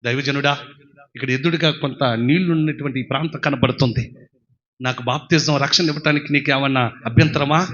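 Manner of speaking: a meek seeker asking the prophet; humble eunuch asking. Acted. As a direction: eunuch gently asks the man of God. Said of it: "నపుంసకుడు అంటాడు".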